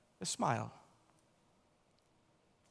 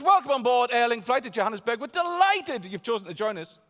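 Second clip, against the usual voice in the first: louder, higher airline announcement voice; cabin crew announcement; 8 semitones higher, 8 dB louder than usual. Retold or imitated. Crew member addressing the cabin, lightly voiced announcement. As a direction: read it out like the welcome on board. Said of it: "She says".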